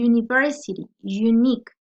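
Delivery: "university" and "unique" starting with "yu"; initial Y sound. Shown as a demonstration. Teacher showing consonant sound, "yu" opening "university" and "unique". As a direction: open "university" and "unique" on a firm Y. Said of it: "va a ser como una Y".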